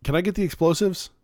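mock naive Kyle. Imitating Kyle's blunt question.

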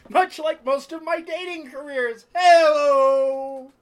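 high, laughing self-mockery; real laughter through the punchline; laughing joke. Real, not acted. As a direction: laugh at yourself then call hey-o.

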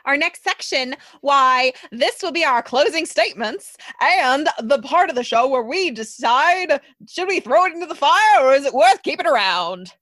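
put-on lightly done old-timey radio announcer; a hint of transatlantic showman; old hollywood star. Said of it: "I love the old-timey radio voice".

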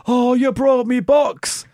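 con man. Retold or imitated. Acted con artist quote.

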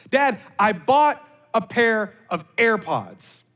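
slow, proud announcement imitating a daughter; excited daughter imitation. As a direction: mimic a daughter announcing big news, drawn out. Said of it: "here was her exact wordings".

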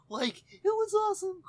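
high laughing burst. Real, not acted. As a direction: laugh through the words. Laughing at own Shaggy bit.

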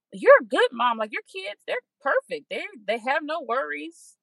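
gently talking yourself down from the edge; reassuring self-talk. Retold or imitated. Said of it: "talk myself back into".

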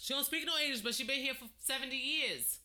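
high, loud insistence; real exasperated insistence; emphatic protest. Real, not acted. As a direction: protest with pitch way up. Insisting in a heated dispute about grandmother.

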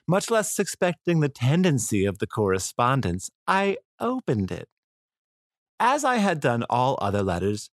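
lightly put-on British accent. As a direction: read the letter aloud in a mock British voice. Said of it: "I don't know why I'm talking in a British voice".

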